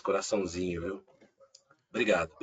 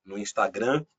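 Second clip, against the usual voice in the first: "Instagram" in a Brazilian Portuguese accent; 3 semitones lower than usual. Real, not acted. Guest correcting himself on social networks, Brazilian accent. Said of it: "a gente começa a pegar sotaques".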